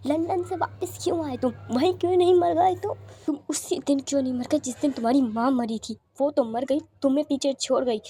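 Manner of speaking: furious tirade, rising to shouts mid-way; angry scolding. Acted. Mother blames the boy for ruining daughter's engagement, furious scolding. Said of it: "काफ़ी सुनाती हैं और उसे मारने लगती हैं".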